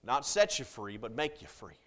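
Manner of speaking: preacher stressing make over set. Shown as a demonstration. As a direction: set said lightly, make leaned on. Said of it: "there is a difference".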